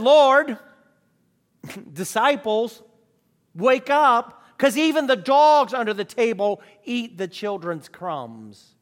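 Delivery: the woman answering Jesus, quick and witty; witty reply. Retold or imitated. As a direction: toss it back playfully. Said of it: "judging by her witty reply".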